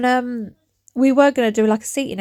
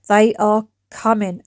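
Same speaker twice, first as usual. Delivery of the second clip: mock ominous; slower than usual. Shown as a demonstration. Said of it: "cleaning videos that are coming your way".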